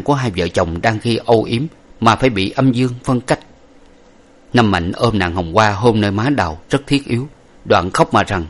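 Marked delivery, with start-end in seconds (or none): none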